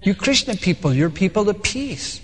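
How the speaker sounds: gentle, unhurried appeal; acted-out loving reproach. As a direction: soothe them tenderly, easing off at the end. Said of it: "I very lovingly said".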